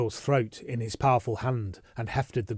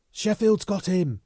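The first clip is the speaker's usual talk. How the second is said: breathless, higher, slow; gasped; 8 semitones higher, 5 dB louder, slower than usual. Acted. Bunny out of breath telling Yeovil, gasping and higher. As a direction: gasp it out winded. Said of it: "Bunny gasped".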